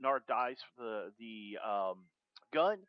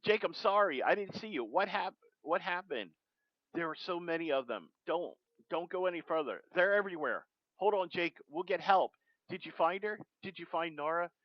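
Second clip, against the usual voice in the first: put-on urgent apologetic teen; 5 semitones higher than usual. Driver apologizing to wounded Jake, urgent and raised. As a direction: rush the apology, voice lifted.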